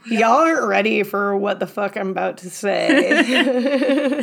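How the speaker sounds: laughing, pushy Southern-style y'all; aggressive y'all. Pretend. Friend joking about her aggressive y'all, laughing threat. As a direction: throw y'all at them like a challenge. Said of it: "I have more of an aggressive y'all".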